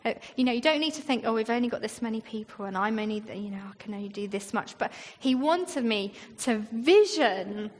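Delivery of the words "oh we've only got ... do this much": quick, low, dwindling mumble of doubts; mock self-doubt. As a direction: rattle off small worries, fading away. Voicing own small, practical doubts.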